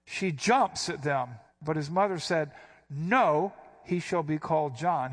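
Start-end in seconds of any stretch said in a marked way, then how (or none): 2.9-5.1 a sharp no, leaning on "shall"; emphatic refusal. Retold or imitated. Preacher voicing Elizabeth refusing the name Zachariah, emphatic. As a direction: refuse flatly, no room for argument. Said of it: "She's emphatic".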